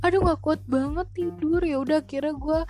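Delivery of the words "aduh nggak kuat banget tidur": exaggerated whining about sleep; mock whiny. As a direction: whine it in a put-on way. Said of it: "gue sok-sokan kayak".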